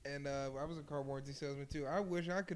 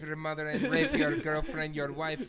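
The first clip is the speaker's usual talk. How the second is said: loud mock threats of a mad caller; imitated enraged scammer; 7 dB louder than usual. Scammer threatening a prank victim, loud imitated rage. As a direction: rant loudly, imitating the furious scammer. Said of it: "why they get so mad".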